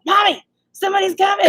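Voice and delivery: high-pitched imitated kid's holler; mock yell to Mommy; child yelling. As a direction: call out a warning like a kid. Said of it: "Wyatt's yelling".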